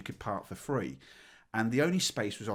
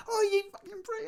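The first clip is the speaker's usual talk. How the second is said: retold shout. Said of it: "we were shouting".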